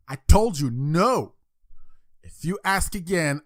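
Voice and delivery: loud, firm scolding father; exasperated dad. Acted. Father scolds boy who keeps asking, exasperated dad. Father loses patience in joke.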